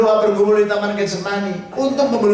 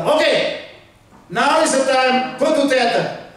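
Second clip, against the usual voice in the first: doctors; 5 semitones higher, slower than usual. Retold or imitated. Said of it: "para dokter itu langsung bilang".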